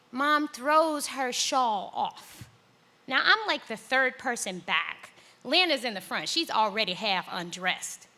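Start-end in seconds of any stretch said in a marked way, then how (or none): none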